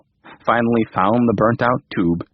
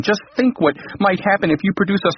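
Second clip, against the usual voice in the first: alarmed king; 10 semitones higher than usual. Acted.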